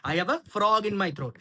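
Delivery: slow, careful teacher read; slow model phrase. Shown as a demonstration. Teacher repeats the English phrase slowly. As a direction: say it slowly so learners can copy. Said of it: "এইটা হচ্ছে তার English".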